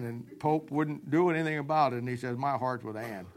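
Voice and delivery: low, soft, sulking lament to a friend; mopey heartbroken king. Retold or imitated. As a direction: pour out love troubles like a sulky teen. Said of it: "sees him moping around".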